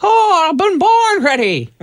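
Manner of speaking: high, hammed-up eagerness; mock eager. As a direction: puff up like you can't wait. Eager reply before prank call.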